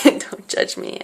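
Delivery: breathy laughing repeat, slow; laughing whisper. Real, not acted. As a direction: giggle it out under your breath.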